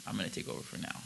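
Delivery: breathy unvoiced repeat; whispered second take. Real, not acted. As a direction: whisper the same line.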